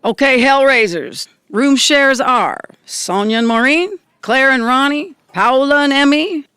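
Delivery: loud announcement to the whole group; calling out. Acted. Host calling room shares to the band, loud. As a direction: call it out so everyone hears.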